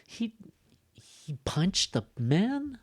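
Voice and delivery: slow, "man" soaring high; incredulous echo question rising on "man"; surprised tag question. Shown as a demonstration. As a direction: draw out "man" upward in shock. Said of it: "like, showing surprise".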